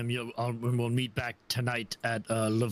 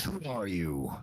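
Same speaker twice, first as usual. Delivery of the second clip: low, slow menacing orc growl; 5 semitones lower than usual. Acted. Orc pirate threatening the strangers at the docks, low growl. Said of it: "growls at you and says".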